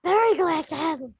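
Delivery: understated, unexcited claim of delight; dry, dutiful welcome; deadpan enthusiasm. Real, not acted. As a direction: claim to be thrilled without showing it. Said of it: "You sound ecstatic".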